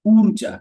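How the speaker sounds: ঊর্জা with a trilled r, stressed; rolled r in ঊর্জা. Shown as a demonstration. Teacher demonstrating Sanskrit ঊর্জা to students. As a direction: say ঊর্জা with a vibrating r. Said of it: "vibration হবে".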